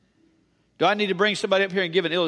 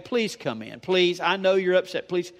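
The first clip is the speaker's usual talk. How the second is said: mock begging. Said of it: "You'd have to beg".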